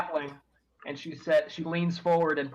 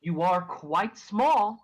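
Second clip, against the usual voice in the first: smiling NPC; 4 semitones higher than usual. Acted. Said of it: "So she smiles and she says".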